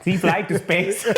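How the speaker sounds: slow, high, put-on accent voice; mock janitor. Friend mimicking the janitor's odd catchphrase, slow and high. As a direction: drag out a goofy janitor's line.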